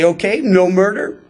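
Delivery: breezy, self-satisfied list with little pauses; mildly smug mock self-approval. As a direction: tick each one off smugly. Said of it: "those who would smugly look at the law".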